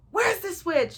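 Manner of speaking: high-pitched imitated demand; demanding grandma. Grandma asking for the switch, demanding imitation. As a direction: put on grandma's sharp, high question.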